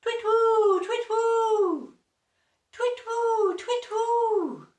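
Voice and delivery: very high, loud owl hoot; loud high twit-woo calls. Acted. Owl hooting from the tree.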